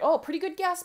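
bright, high and loud praise; encouraging praise. Pretend. Parent praising a child's spelling guess, high and loud. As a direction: cheer the child on.

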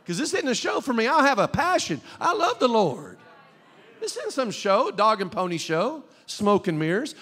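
high, emphatic pulpit declaration; impassioned preaching. Real, not acted. Preacher telling church this is his passion, impassioned preaching. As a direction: declare it with conviction.

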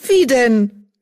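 a loud, high protest. A narrator's reading. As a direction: push back in disbelief. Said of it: "protestierte Mottenflügel".

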